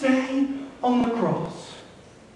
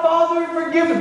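called out, pitched higher; a pleading cry from the cross; 5 semitones higher than usual. Retold or imitated. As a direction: lift the voice and cry it out to heaven. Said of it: "And he cries out".

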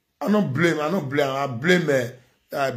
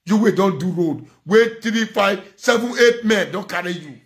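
high, loud scolding outburst; angry shout; 6 semitones higher, 3 dB louder than usual. Real, not acted. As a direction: yell it at them in real anger. Scolding single mothers on Facebook.

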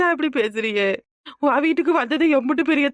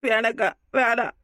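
choked voice; 4 semitones lower, slower than usual. Acted. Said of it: "குரல் எல்லாம் கம்பி போய் கிடக்கு".

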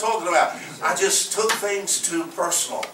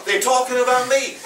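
tearful mother; 6 semitones higher, 3 dB louder than usual. Retold or imitated. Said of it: "Then she started crying".

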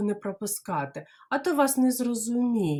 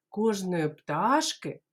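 ordinary delivery

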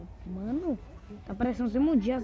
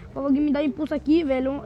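urgent plea; 3 semitones higher, 6 dB louder, faster than usual. Real, not acted. Pede ajuda aos outros jogadores.

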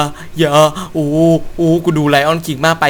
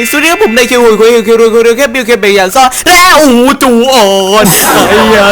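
hyped intro; 5 semitones higher, 5 dB louder than usual. Acted. Channel intro greeting.

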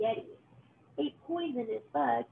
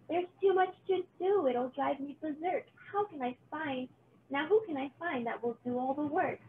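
fretful witch; 3 semitones higher than usual. Acted. Witch frets over party.

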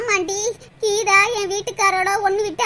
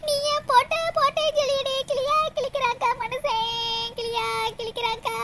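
mock crying. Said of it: "ஏன் இப்படி அழுகுற?".

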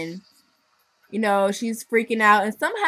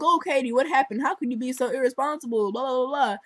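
higher, mock scolding parent; 4 semitones higher, faster than usual. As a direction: nag like a fussy mom, lightly. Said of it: "they're like".

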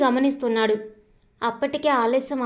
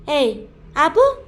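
sharp shout; 2 semitones higher, 5 dB louder, slower than usual. Acted. Shyam shouting to silence the girl, loud and sharp. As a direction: bark it out to shut her up.

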